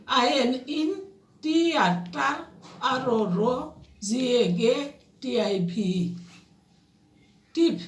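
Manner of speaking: deliberate spelling, a pause after each chunk; spelling by syllables. Shown as a demonstration. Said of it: "এভাবে syllable ভাগ করে উচ্চারণ করে". (সিলেবল ভাগ করে বানান)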